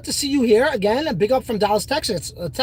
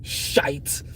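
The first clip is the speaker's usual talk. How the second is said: breathy under-the-breath whisper; whispered curse; 9 semitones lower, 10 dB quieter than usual. Real, not acted. Streamer cursing to himself off-mic, whispered. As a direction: mutter it to yourself, barely voiced. Muttering to himself after bragging.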